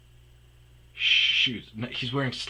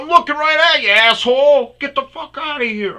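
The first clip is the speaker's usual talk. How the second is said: much louder and higher angry yell; furious shout; 14 dB louder than usual. Retold or imitated. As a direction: chase him off with a bellow. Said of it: "I go".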